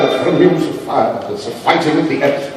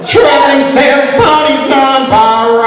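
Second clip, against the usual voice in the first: 1 high excited pony voice; 13 semitones higher, 8 dB louder, slower than usual. Pretend.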